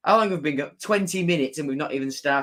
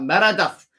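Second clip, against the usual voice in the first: Meredith said with a light Scottish lilt, rolled r, a bit higher and louder; Scottish accent; 4 semitones higher, 5 dB louder than usual. Shown as a demonstration. Savouring the linesman's name Meredith in a Scottish accent. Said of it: "Sounds very nice saying the Scottish accent".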